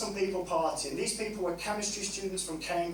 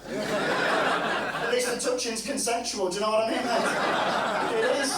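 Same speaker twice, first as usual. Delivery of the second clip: laughing; 4 semitones higher, slower than usual. Real, not acted. Laughing at own joke.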